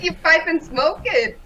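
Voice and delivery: put-on a failed Welsh accent, drifting Indian, with a laugh; laughing co-host attempts a Welsh accent. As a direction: botch a Welsh accent through a giggle. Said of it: "That sounded Indian".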